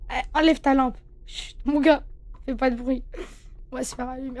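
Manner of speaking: chuchotement caché. Real, not acted. Hiding from Freddy, whispering.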